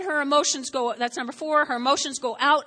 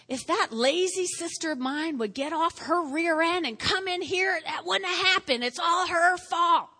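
mock blame; 3 semitones higher than usual. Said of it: "she started blaming Mary".

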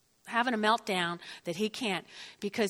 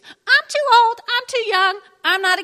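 whiny excuse-maker; 11 semitones higher, 9 dB louder than usual. Retold or imitated. Mimicking listener's excuses.

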